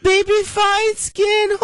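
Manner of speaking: very high squeaky put-on voice; high-pitched offensive Asian accent. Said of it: "it's your Asian, uh, impersonation".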